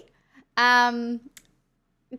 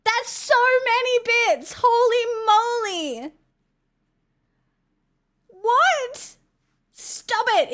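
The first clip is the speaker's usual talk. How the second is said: high, excited put-on Irish accent; 6 semitones higher than usual. Streamer thanking chat for gifted bits in an Irish accent. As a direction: gush in a hammy Irish voice. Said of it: "I can't do the accent anymore".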